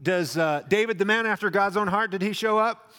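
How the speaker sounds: warm admiring question. Pretend. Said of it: "Doesn't say".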